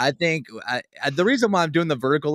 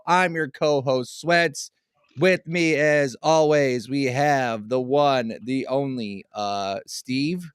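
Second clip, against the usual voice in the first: flat robotic monotone; much slower than usual. Acted. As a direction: speak like a machine, robot voice. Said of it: "why do you sound like a robot?".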